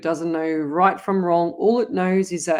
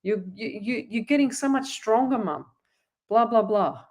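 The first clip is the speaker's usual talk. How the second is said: higher, bright upbeat praise to a sick mum; cheery encouragement; 4 semitones higher than usual. Retold or imitated. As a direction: sound thrilled to cheer her up. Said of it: "you say".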